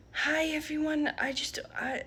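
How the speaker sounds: barely whispering, unvoiced; a shy, breathless whisper to the room; timid whisper. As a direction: whisper it nervously. Timid presentation.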